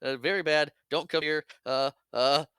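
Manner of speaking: mildly frantic, stammering bluff; imitating someone grasping for an excuse, halting between bits; flustered improvising. Han warning the caller off with a made-up leak, mock flustered. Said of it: "he's making it up as he goes along".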